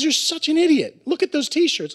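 put-on a drunk buddy losing patience; drunk friend. Drunk Brad scolds the narrator over the t-shirts, exasperated drunk voice. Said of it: "he's all drunk".

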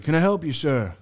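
imitating a security guard's greeting; big security guard. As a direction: put on a mildly challenging doorman. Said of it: "his big security guard".

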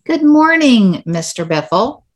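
bright class reply. Shown as a demonstration. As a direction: answer the teacher with a lifted, cheerful good morning. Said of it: "One more time".

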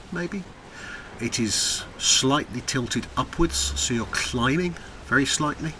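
slow, measured suspenseful description; game master's scene setting. Acted. Game master describing a stone bridge to a player, slow scene setting. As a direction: lay out the scene piece by piece, lingering on words.

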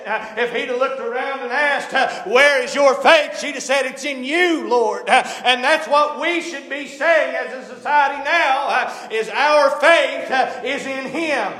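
impassioned preaching with punctuating "uh". Acted. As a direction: preach it in a driving, rhythmic cadence. Preaching in rising cadence.

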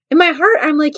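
ordinary delivery

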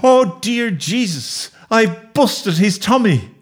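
high, slow moan of horror. A narrator's reading. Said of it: "I moaned".

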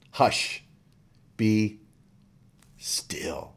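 breathy whispered hush, fading out. Shown as a demonstration. Preacher whispers Jesus' words to the sea, whispered. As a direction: hush it like calming a child. Repeats the command softly.

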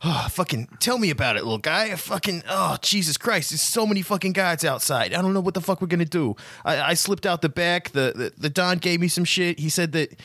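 panting, high and rushed; breathless, words tumbling out; out of breath. Acted. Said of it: "he stops and he's out of breath".

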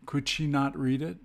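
"not" as the prominent word; emphasis on NOT. Shown as a demonstration. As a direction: stress "not", question rising at the end. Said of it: "the emphasis is placed after the subject".

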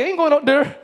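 imitated Jamaican accent, "there" as "dere". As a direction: mimic the daughter's Jamaican accent. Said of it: "She got a Jamaican accent".

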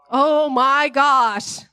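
a slow, hammed-up gasp of fake scandal; mock shock. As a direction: draw it out like pretend outrage.

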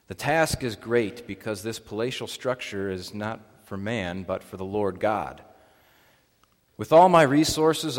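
measured, formal public Bible reading; emphatic phrase openings, falling at each close; scripture reading. Acted. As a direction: read it out clearly to a congregation. Reads scripture to the congregation.

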